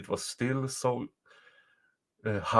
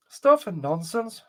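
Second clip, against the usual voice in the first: slow, louder, higher scoff; dismissive boy; 6 semitones higher, 5 dB louder, slower than usual. A narrator's reading. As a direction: wave the fear away, loud and slow. Boy dismisses mother's fear.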